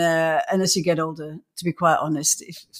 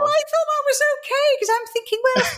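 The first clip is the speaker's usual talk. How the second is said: laughing. Real, not acted. Laughs while telling the story.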